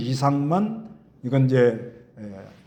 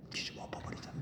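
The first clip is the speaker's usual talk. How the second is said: very low, breathy, hushed, whispered mutter. Explaining a word meaning to mutter, shown in a very low muttering voice. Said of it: "아주 낮은 목소리로".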